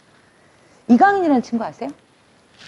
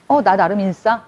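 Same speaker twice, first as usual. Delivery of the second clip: smug insider mock; 3 dB louder, slower than usual. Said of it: "이러면서".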